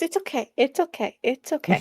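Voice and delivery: soft, hushed reassurance; calm a panicking friend gently; soothing. Acted. Girl patting her panicked companion, soothing.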